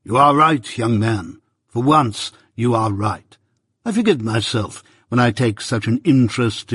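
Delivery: lightly voiced pompous old busybody; a hint of a self-important uncle holding forth; Pumblechook, pompous. Pumblechook lecturing young Pip at breakfast, lightly pompous voice.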